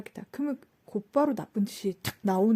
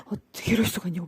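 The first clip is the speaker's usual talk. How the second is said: hurried, lower, aghast imitation; mock grave disbelief; 4 semitones lower, faster than usual. Imitating a customer who feels terribly wronged, grave disbelief. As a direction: act out grave, trembling-edged disbelief. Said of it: "막 너무 심각한 거야".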